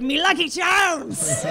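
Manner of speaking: mock leprechaun Irish accent. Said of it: "And he's like".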